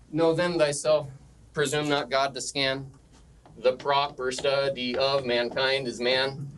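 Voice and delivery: "Know then thyself" read in measured iambic beats; metrical recitation. Shown as a demonstration. Teacher demonstrating pentameter to the class, "presume not God to scan" in measured metre. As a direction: give "mankind is man" an even, measured unstressed-stressed beat. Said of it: "okay, it goes like this".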